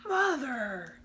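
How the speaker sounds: a hint of a growling wolf calling mother; low growly voice. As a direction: growl it out, lightly. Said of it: "In a low, growly voice".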